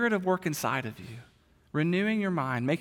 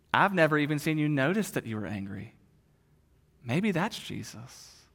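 smiling wife; 3 semitones lower than usual. Retold or imitated. Wife answers her angry husband, gentle and smiling. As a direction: reassure him tenderly with a smile. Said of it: "his wife smiles at him".

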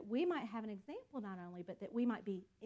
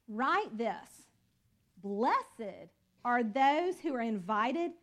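scripture reading; 4 dB louder than usual. Acted. Preacher reading the angel's warning to the congregation, solemn. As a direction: read the angel's words out with weight.

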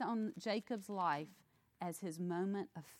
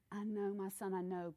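gentle father. Retold or imitated. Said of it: "But he's gentle".

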